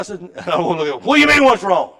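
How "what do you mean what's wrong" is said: higher and louder, choked-up protest; retold tearful cry of disbelief; heartbroken outburst. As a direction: blurt it out hurt and upset. Retelling his heartbroken outburst.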